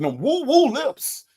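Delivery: slow mock imitation, stretching woo-woo; mock imitation of the caller's line for the women in chat; imitating the caller. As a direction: drag out "woo-woo" slowly, mocking how he said it. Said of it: "and that's how he said it".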